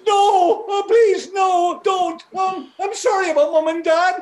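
pleading. Acted. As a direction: beg for your life. Begging at the cliff.

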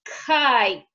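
kite, crisp k then long i, t at the end; speech therapy model of kite; model word kite. Shown as a demonstration. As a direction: say kite slowly and clearly for a child. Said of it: "You try".

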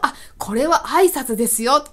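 high, emphatic imitation of an expert greeter; hammed-up, lifted proclamation; clear-cut announcing. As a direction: declare it as an official greeting. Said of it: "っていう風に完結させてくるんですよね".

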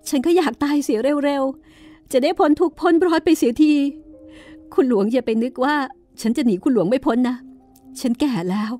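weep through the words, rising into bitter defiance; crying harder. Acted. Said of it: "ก็ยิ่งร้องไห้หนักขึ้นไปอีก".

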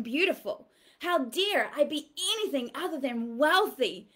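rising demonstrated anger; defiant outrage. Shown as a demonstration. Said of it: "get mad".

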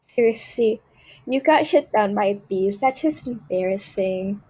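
lightly voiced spoiled snob, mostly her own voice; a picky diva turning up her nose at everything; Tiffany Prada. A spoiled girl judging everything in the game, lightly voiced snobbery. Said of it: "my little skit of Tiffany Prada".

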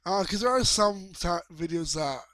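breathing heavily into the mic; audible heavy breaths between words. Real, not acted. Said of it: "Sorry about the heavy breathing".

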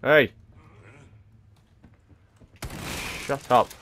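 loud angry yell; angry shout. Real, not acted. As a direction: bark it out, fed up. Shouting at the game noise.

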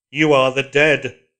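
hard, loud, slow commanding voice from behind; cold metallic command, slow and heavy; iron voice. A narrator's reading. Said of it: "said an iron voice behind them".

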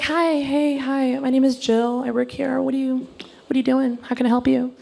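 a hint of chirpy shop-assistant voice; overfriendly store clerk. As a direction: greet a customer too keenly. Acting an overfriendly store employee.

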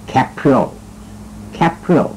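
Capriol said the plain English way, falling; English reading. Shown as a demonstration. Host guessing the name from its spelling, English reading. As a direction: read Capriol as it's spelt. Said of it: "คงจะอ่านว่า".

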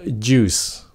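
"juice" as one syllable, joos with final s; neat juice. Shown as a demonstration. Teacher joining the sounds, juice in one syllable. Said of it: "Bây giờ nói gọn lại".

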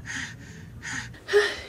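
breathless sigh. Real, not acted. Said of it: "I'm out of breath".

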